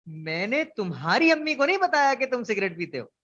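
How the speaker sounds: तुम्हारी said with weight, rest plain; stress on तुम्हारी. Shown as a demonstration. Teacher showing the stress moved to तुम्हारी. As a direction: push on तुम्हारी. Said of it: "इस जुमले का दूसरा लफ्ज लेके उसके ऊपर जोर देने वाला हूँ".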